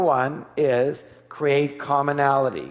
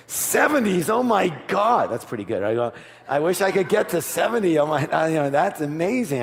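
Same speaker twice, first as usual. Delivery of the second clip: gushing mock amazement; 4 semitones higher than usual. Flattering the golfer.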